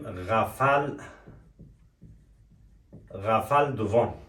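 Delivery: slow, drawn-out model word; slow teaching repeat. Shown as a demonstration. Teacher slowly repeating the word for students. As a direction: spell it out slowly for the class. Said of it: "چی داریم؟".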